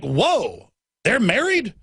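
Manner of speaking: a hammed-up double take, retold; mock surprise. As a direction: play up the disbelief. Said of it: "and I'm like".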